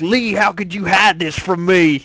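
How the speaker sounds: lightly voiced character impression; Kenny. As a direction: do a mild mock accusation in character. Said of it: "that was my Kenny impression".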